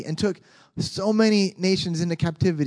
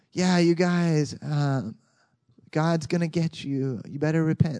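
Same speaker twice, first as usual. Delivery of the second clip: inarticulate preacher. Retold or imitated. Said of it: "most inarticulate preacher".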